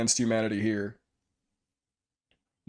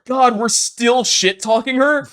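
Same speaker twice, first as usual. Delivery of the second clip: laughing; 11 semitones higher, 14 dB louder, slower than usual. Real, not acted. Laughing at own trash talk.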